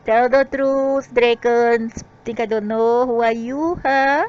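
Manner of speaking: loud, high, challenging; angry accusation. Real, not acted. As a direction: call them out and demand the truth. Accusing the dragons.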